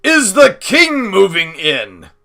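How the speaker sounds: loud, high, slow exclaimed question; astonished cry. A narrator's reading. Father faced with large packages at the door, crying out. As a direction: draw it out in loud disbelief. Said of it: "he cried".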